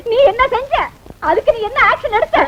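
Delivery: crying complaint. Acted. Wife complains of lost jewels.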